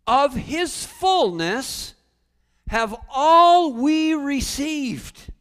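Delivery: preached at full volume; booming scripture. Real, not acted. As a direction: proclaim the verse like thunder. Quoting scripture with full force.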